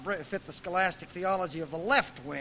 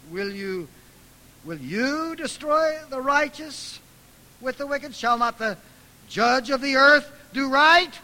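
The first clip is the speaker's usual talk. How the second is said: indignant challenge; 11 semitones higher, 12 dB louder than usual. Retold or imitated. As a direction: hold God to account. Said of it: "he scolds God".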